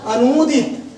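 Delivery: अनुदित read with a long ऊ, अनूदित; the common wrong way, अनुदित with stretched u. Shown as a demonstration. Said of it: "हम पढ़ते हैं क्या बेटा".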